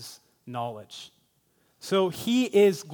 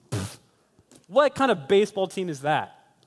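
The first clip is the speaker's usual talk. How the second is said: scoff, then a higher-pitched jeer; mocking; 3 semitones higher, 4 dB louder than usual. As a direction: pretend to sneer at a rival team. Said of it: "if I began to mock".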